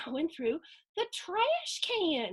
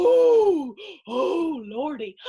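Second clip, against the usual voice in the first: startled; 3 semitones higher, 11 dB louder, slower than usual. Acted. Reader reacting to nearly hitting the cat, startled. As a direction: cry out, then sink to relief.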